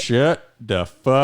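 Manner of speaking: loud, high angry shout; angry yell. Acted. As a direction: snap at him in fury. Skit yelling again.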